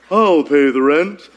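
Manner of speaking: slow bold hero voice; heroic rescuer. Acted. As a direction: declare it like a melodrama hero. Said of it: "and this is a bow tie".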